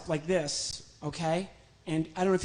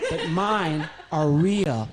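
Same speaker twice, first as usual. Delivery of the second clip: slow, loud puppet retort; proud little sock puppet; 6 dB louder, much slower than usual. Acted.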